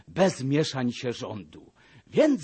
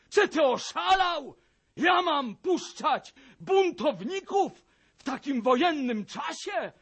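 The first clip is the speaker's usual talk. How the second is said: much higher and louder, shouting in rage; furious shout; 9 semitones higher, 5 dB louder than usual. A narrator's reading. Major shouts at the captain and the gentry, furious. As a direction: snort out the scolding like an enraged major. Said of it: "i od gniewu parska".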